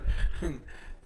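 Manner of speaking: soft, breathy chuckle; brief quiet laugh; light amused puff of laughter. Real, not acted. Chuckles after joking with students.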